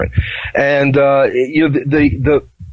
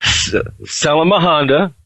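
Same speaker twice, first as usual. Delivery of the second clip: mock speaking in tongues; 5 semitones higher than usual. Shown as a demonstration. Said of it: "Here, follow me".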